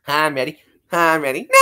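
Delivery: SpongeBob. Acted. SpongeBob impression.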